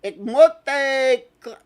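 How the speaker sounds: slow German with a Spanish accent; halting German in a Spanish accent. Real, not acted. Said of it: "I'm saying it with a Spanish accent".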